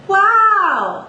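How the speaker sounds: "Wow" up high but kept in the mouth; chest-voice wow. Shown as a demonstration. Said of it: "I would go".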